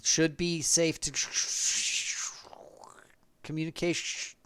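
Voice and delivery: choppy transmission with mouth static; comms breaking up. Acted. Diamond calls the party over failing comms, breaking up. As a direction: cut words off into hissing static. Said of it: "you're breaking up".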